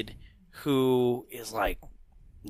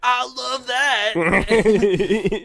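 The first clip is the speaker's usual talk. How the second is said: slow, laughing, pitched-up I love that; laughing drawn-out quote; 7 semitones higher, 3 dB louder, much slower than usual. Retold or imitated. Quoting the crowd's delight, slow laughing drawl. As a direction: stretch it out while laughing.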